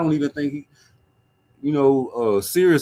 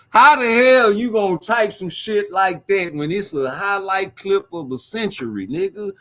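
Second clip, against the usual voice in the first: incredulous; 6 semitones higher than usual. Real, not acted. Incredulous at a comment.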